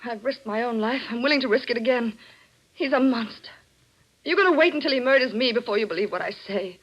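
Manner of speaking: urgent, insistent appeal; acted desperation, quickening at the end; desperate pleading. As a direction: plead hard to be believed. Wife desperately tries to convince detective.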